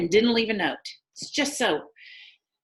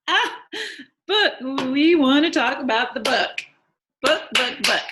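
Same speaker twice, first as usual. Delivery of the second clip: loud, higher, insistent redirect; brisk change of subject; 6 semitones higher, 6 dB louder than usual. Acted. Widow steering the club back to the book, loud and insistent. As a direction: punch out each repeated word loudly.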